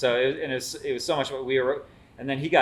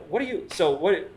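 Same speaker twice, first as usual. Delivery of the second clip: louder, higher mock indignation; getting mad; 8 semitones higher, 5 dB louder than usual. Tipsy fan arguing with the chef, mock annoyed. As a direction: start the argument, half-hammed. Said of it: "I started to get mad".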